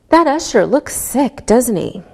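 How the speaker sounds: doesn't he dropping down at the end; falling tag. Shown as a demonstration. Teacher modelling a falling tag for students. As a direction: say doesn't he with a fall, expecting agreement. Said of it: "If your voice goes down".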